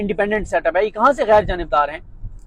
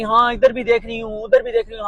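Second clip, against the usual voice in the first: lightly mimicking a politician pointing at the crowd; a hint of a mock boastful speaker; mocking Maryam Nawaz; 3 semitones higher than usual. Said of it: "और इशारा कर रही".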